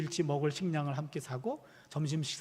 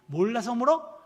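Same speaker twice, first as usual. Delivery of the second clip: higher, louder mock retort; indignant child imitation; 5 semitones higher, 7 dB louder than usual. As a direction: imitate a cross little girl talking back. Retold angry toddler snapping back. (따지는 꼬마 흉내)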